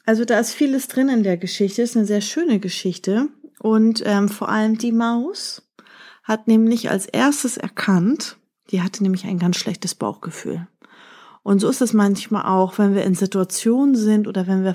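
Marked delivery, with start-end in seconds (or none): none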